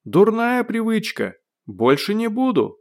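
high, slow, drawn-out call; shouted apology. A narrator's reading. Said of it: "крикнул он". (покаянный выкрик)

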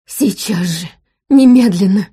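loud theatrical demand; demanding shout. A narrator's reading. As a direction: shout it like a tantrum. Charles threatens, demanding attention.

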